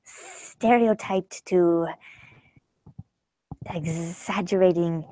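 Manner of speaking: slow, soft hissing snake voice. Acted. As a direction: draw out the S's like a snake. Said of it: "A snake's voice is".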